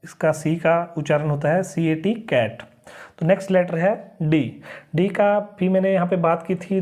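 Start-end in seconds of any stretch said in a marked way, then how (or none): 1.6-2.6 कैट with the सी sounding as क; teacher sounding out कैट; spelling then saying cat. Shown as a demonstration. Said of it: "क की तरह".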